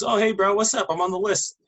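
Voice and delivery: imitating a guest, pitched high; eager party guest. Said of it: "this monkey goes".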